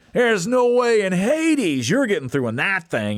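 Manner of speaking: mild mock jeer at the Commando. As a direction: laugh off the little Jeep. Truck guys mocking the Jeep.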